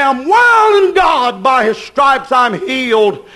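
high, slow, emphatic proclamation; preached declaration. Real, not acted. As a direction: declare it slowly like a testimony. Preacher voicing the sick.

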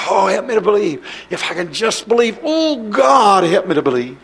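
acted struggle to believe, "oh, God" swelling then dropping; mock plea of someone straining to believe; imitated prayer wrestling with doubt. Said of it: "you still wrestle to say".

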